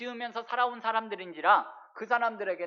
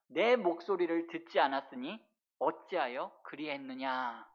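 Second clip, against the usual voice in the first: restrained reproach; 5 semitones lower, 5 dB quieter than usual. Acted. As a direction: reproach them gravely, letting the question drop quieter. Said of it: "책망하고 계시는 말씀이에요".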